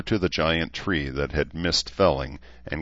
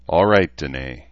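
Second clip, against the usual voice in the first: with a sigh; 7 dB louder than usual. Acted. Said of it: "he said with a sigh".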